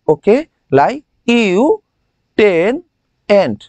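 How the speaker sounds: "লাই ইউ" dragged slowly, then "টেন", "এন্ট"; slow, split. Shown as a demonstration. Teacher repeating the memory chunks. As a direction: break it into slow pieces. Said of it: "একটু পরেই ভুলে যাব".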